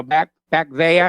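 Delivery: light Boston accent on "back there". Shown as a demonstration. Host recalling an old campaign bit, lightly tried Boston accent. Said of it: "I haven't done a Boston accent".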